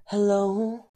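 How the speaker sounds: high, drawn-out mock hello. Barista plotting a new way to answer, high mock hello. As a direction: pitch the greeting way up, playfully. Acts out drive-thru hello exchange.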